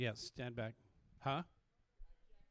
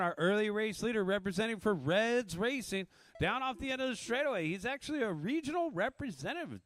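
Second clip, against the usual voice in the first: energetic race commentary voice; race play-by-play. Acted. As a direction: call the race live.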